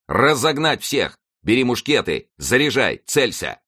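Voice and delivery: high, forceful military orders; shouted commands. A narrator's reading. Officer orders musketeers against the crowd, shouted commands. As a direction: call out each command separately. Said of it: "голосом и рукой подзывая поневоле отставших".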